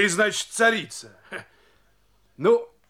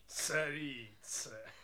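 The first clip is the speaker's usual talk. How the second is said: насмешливый смешок; 15 dB quieter, much slower than usual. Acted. Сапожник уходит, насмехаясь.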